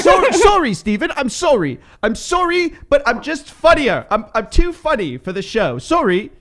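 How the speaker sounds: high, hammed-up bad British accent; fake British accent. Mock-apologising to Steven for being funnier, in a fake British accent. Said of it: "enough with the British accent, fake bad British accent".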